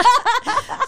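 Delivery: loud, high burst of laughter; real laughter. Real, not acted. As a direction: laugh out at the joke. Laughing at the imitation. (gargalhada alta e aguda)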